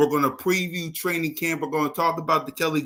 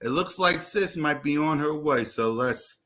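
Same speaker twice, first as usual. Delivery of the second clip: out of breath. Real, not acted. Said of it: "while I catch my breath".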